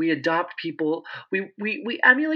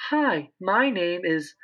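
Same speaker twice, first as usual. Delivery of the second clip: "Hi, my name is" held up high and drawn out; feminine intonation; 4 semitones higher, much slower than usual. Shown as a demonstration. Speech pathologist demonstrates women's intonation, "Hi, my name is" held high. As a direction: say "Hi, my name is" slow and lifted. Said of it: "their intonation".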